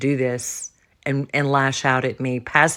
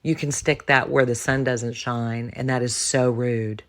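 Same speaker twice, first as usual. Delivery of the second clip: calmly said; 3 semitones lower, 4 dB quieter than usual. Retold or imitated. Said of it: "I was very calmly stay-, saying".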